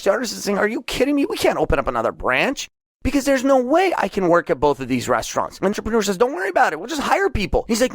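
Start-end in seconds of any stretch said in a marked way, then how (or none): 0.6-5.6 incredulous artist. Acted. Artist refuses new branch. 6.2-7.6 high, airy brush-off; breezy dismissal. Acted. Entrepreneur brushing off worry.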